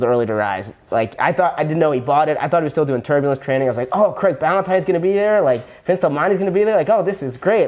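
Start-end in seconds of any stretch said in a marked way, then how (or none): 3.9-7.7 higher, eager voice of his younger self; retold excitement. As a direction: replay the naive thrill of a beginner.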